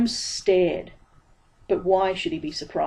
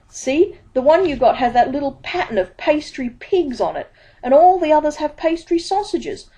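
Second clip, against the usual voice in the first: high, nervous babbling pieman; nervous high pitch, rushed and stammering; flustered Dibbler; 6 semitones higher, 5 dB louder than usual. A narrator's reading. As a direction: stumble over words, sweating with panic.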